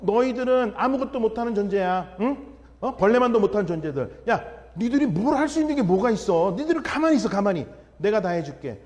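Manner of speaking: a lightly voiced God scoffing at helpless people; a hint of a condescending God, rising on 가만히; dismissive God. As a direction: talk down to them as a mildly mocking almighty. Imagined almighty God belittling people.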